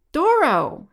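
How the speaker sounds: loud, high-pitched cry of a name; calling out. A narrator's reading. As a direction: shout for someone lost in the sea. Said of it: "he called again".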